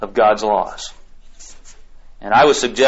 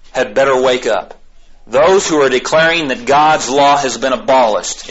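ordinary delivery

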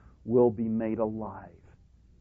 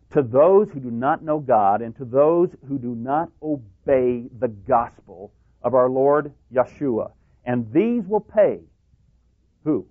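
scripture reading; 2 semitones higher, 4 dB louder than usual. Acted. Reads scripture in preaching voice.

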